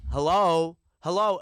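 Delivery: hello? anyone here?; calling out hello. Retold or imitated. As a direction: call out to get attention. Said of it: "where I'm like".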